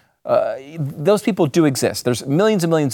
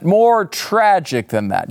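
mock tragic; slower than usual. Escalating mock-dramatic build.

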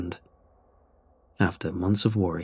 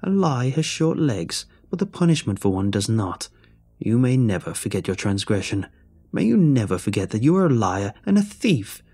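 rising, louder hag curse; cold curse; 3 dB louder than usual. Acted. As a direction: curse him with growing fury. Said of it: "her voice turning cold".

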